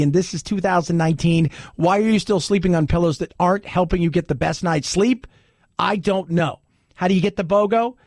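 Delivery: brisk, upbeat sponsor read with the phone number and promo code hammered home. Acted. Radio host to listeners, pitching a sponsor: upbeat ad read. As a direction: sell the pillow deal like a radio spot.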